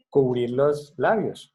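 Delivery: "cubrir los labios" said slowly and loudly; slow emphasis. Shown as a demonstration. Teacher stresses to the class to cover lips, slowly. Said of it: "para una buena aplicación".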